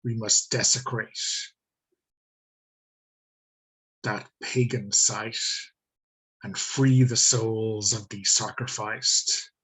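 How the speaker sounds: slow, measured decree; Tridwolf's pronouncement. Acted. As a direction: pronounce it slowly, like a lightly voiced leader. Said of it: "reaction to this pronouncement".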